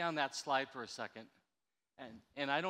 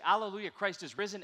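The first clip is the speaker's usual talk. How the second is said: exclamation mark; 3 semitones higher, 5 dB louder than usual. Shown as a demonstration. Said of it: "exclamation mark, woo-hoo".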